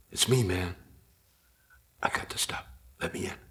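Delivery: hushed lazy stoner mumble. Retold or imitated. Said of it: "My dumb stoner voice".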